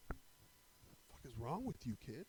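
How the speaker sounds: mock cop telling-off; retold yelling. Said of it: "Gets to yelling, screaming".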